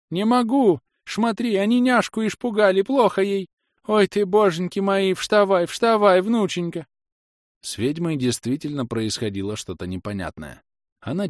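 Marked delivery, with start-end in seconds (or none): 0.1-6.9 put-on much higher, loud panicked old woman's screech; shrieking old woman. A narrator's reading. Scene: grandmother shrieks at the pale stranger, terrified. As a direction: screech in terror at the vampire.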